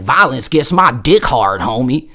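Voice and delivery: slow Southern twang drawl; Southern twang demo. Shown as a demonstration. Teller showing the line, slow Southern twang. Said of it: "you gotta have that Southern twang".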